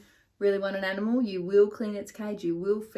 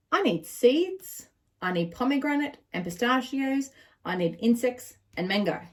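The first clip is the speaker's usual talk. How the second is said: demanding parrot; 3 semitones higher, 4 dB louder than usual. Acted.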